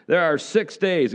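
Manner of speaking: first tentative try at the cranky voice; hint of cranky ruler. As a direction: start the grumpy synagogue ruler, only half in voice. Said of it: "can you hear this guy's voice?".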